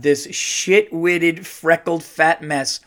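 drawn-out, slow string of insults; deliberate insult reading. Shown as a demonstration. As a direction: savour each insulting word. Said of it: "just reading it like that".

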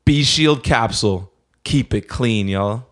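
upbeat sponsor read, selling it. Acted. Host reads a clothing ad to listeners, upbeat sales voice. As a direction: pitch the gear to the listeners.

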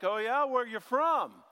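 lightly acted, slow testing question; challenging sentry. Israel questioning supposed allies, mock challenge. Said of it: "And Israel like".

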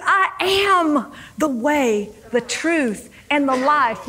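slow, drawn-out "I am", then settling phrase by phrase; mildly exasperated declaration, leaning on "I am"; frustrated insistence. Acted. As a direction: stretch "I am" as if insisting to doubters. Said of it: "feeling that same frustration when he said".

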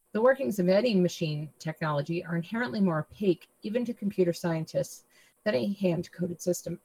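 hoarse, tired voice; voice giving out. Real, not acted. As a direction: voice giving out, fading rasp. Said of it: "I'm losing my voice".

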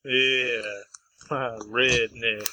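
a hint of a mock redneck drawl; redneck accent. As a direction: lightly put on a redneck accent. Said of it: "I'll do a redneck accent".

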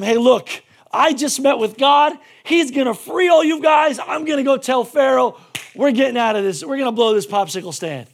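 loud, eager news of freedom; excited announcement. Retold or imitated. Moses tells the enslaved people, excited and loud. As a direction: burst out with the good news.

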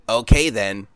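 sleazy, judgy stranger voice; mock him with a sleazy sneer; game store creep voice. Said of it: "your generic, uh, game store creep voice".

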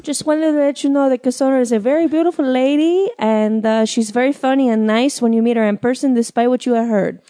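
a lightly put-on publicist voice; publicist Rosa. Cassandra as her publicist Rosa praising herself, lightly voiced. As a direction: play her own publicist Rosa, barely changed. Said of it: "my publicist Rosa's here".

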